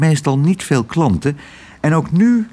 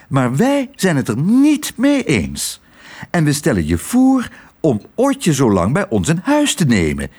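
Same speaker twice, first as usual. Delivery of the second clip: bossy fussy aunts. Acted. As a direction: insist on what the child needs. Aunt Mies makes her offer.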